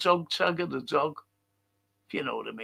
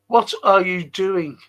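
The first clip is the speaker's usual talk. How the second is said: mock bad acting; 3 semitones higher, 7 dB louder than usual. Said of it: "That's how it was acted".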